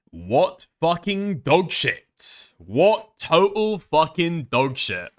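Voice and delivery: very slow, dragged-out disbelief; incredulous disgust. Real, not acted. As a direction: stretch out each word in contempt. Incredulous at the video's ending.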